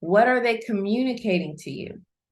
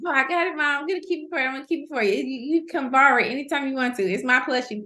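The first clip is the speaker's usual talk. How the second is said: put-on higher, eager little boy promising; imitating her son; 5 semitones higher, much faster than usual. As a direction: play the son swearing he'll keep it safe. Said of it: "He was like".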